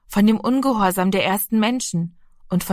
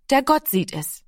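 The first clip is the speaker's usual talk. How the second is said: higher, hushed and earnest; child's earnest answer; 6 semitones higher than usual. Acted. Boy tells his brother God sees it, earnest and higher. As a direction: say it like a secret truth. Boy's awed confession.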